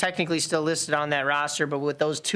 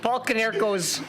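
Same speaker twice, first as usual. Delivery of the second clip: put-on Chicago accent; 5 semitones higher than usual. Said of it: "add S's to names".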